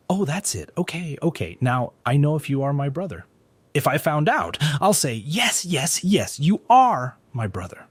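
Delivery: mock him sweetly before the threat. A narrator's reading. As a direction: sister taunting the stranger, sneering. Sister mocks the brother's claim.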